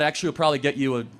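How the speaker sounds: dry sarcasm, rattled off fast; sarcastic. Acted. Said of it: "You know I'm being sarcastic".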